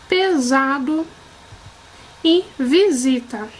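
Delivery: "vaso", "raposa", "asilo" each said apart with a clear z; S pronounced as Z. Shown as a demonstration. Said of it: "O som do S com som de Z". (leitura pausada com som de Z em "visita")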